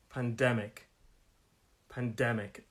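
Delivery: measured "Pandemic" with DEM stressed; stress on second syllable. Shown as a demonstration. Teacher modelling "Pandemic" for learners, stress on DEM. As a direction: lean on DEM in each "Pandemic". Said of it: "on the second syllable".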